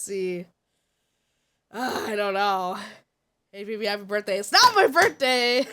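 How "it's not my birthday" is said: exasperated protest. Real, not acted. Insisting to chat, exasperated.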